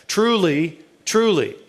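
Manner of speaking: "Truly, truly" as two separate, weighted words; emphatic repetition. Acted. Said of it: "that's emphasis. That's saying it in bold".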